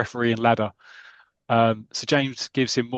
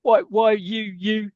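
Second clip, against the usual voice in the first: outraged sputter; 9 semitones higher, much slower than usual. Acted. Manager sputtering with rage at the fussy referee. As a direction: choke on the anger, lost for words.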